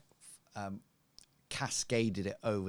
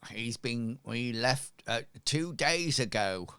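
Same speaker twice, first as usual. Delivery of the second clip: lightly voiced local woman, louder toward the end; robust street woman; 3 semitones higher, 4 dB louder than usual. Cleaner telling strangers about the missing man, lightly voiced gossip. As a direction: call the news over, lifting the pitch. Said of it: "rather rotund, robust, um, lady".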